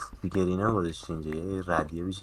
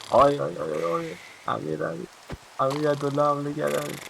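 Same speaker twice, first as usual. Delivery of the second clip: high, loud alarmed cries; panicked shouting; 7 semitones higher, 7 dB louder than usual. Real, not acted. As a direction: scream for help in panic. Panicked, NPC attacked in game.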